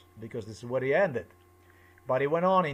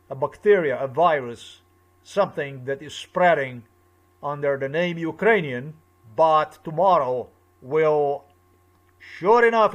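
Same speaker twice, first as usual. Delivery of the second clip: heated loud rant; 9 dB louder than usual. Real, not acted. Heated rant about Ukrainians.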